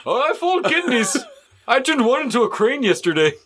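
eerily casual killer voice; calm psychopath. Acted. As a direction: chat about gore lightly. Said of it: "That's a good serial killer voice".

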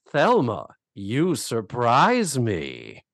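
slow, drawn-out, acted intrigue; pleased astonishment. He is into it, acted slow and intrigued. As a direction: savor it with a playful smile. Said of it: "turns into a smile".

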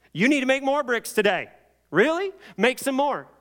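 high, loud mock slave driver; demanding taskmaster. Slave driver demanding bricks, acted.

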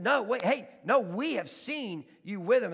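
loud, high acted challenge; insistent accusation. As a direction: confront him, slowing on each word. Group confronts Peter, acted.

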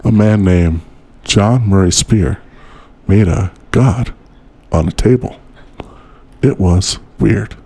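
mock spooky narration.

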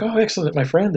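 put-on high-pitched Russian-accented delight; lightly mimicked Russian accent. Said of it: "do it in a Russian accent".

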